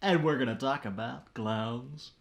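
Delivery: booming PA announcer. Shown as a demonstration. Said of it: "That's, that's my P A voice".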